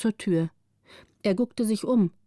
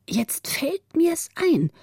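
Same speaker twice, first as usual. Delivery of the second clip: hushed realization; 8 semitones higher, much slower than usual. A narrator's reading. Müffert gets an idea.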